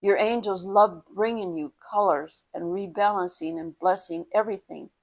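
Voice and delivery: measured meditation guide, pausing between phrases; guided meditation. Acted. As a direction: guide the listener gently into breathing and imagining.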